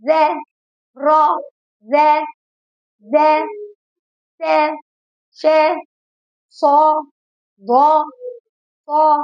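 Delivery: خا, دا and ذا said with the mouth wide open on a clear a; open-mouth fatha. Shown as a demonstration. Teacher showing children the open mouth for the fatha. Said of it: "أفتح بقي".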